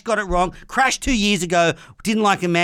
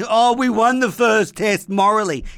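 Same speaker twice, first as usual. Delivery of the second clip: a sneering, higher, louder mock of a whinging English fan; mock whine; 4 semitones higher, 3 dB louder than usual. Mocking English fans who claim a moral win, in a raised sneering whine. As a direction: mimic the smug moral-victory whine, hammed up. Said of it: "they're complaining and whining and".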